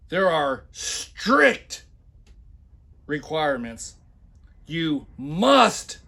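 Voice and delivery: loud, hammed-up reading of the ad; mock emphatic reading. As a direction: read it like a pompous boss. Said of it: "when I put heavy accents and shout".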